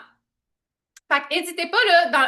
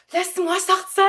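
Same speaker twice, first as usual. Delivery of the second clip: higher, mock cry to escape; acted pleading cry; 5 semitones higher than usual. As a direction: call out like someone trapped inside. Voices inner self begging release.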